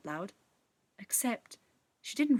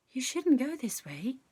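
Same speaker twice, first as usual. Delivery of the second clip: sprite voice; 5 semitones higher than usual. Acted. Sprite warns Tess.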